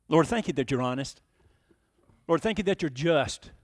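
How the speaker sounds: measured, solemn public prayer; closing prayer. Real, not acted. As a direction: lead the congregation in prayer, pausing between thanks.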